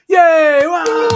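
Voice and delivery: lightly voiced puppet frog cheer; a hint of a frog puppet's high cheer; Kermit the Frog. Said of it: "my Kermit the Frog impression".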